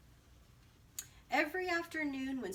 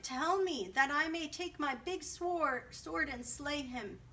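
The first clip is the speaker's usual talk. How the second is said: angry; 5 semitones higher than usual. Acted. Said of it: "his face grew red with anger".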